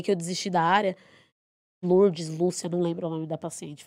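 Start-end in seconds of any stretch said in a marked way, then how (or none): none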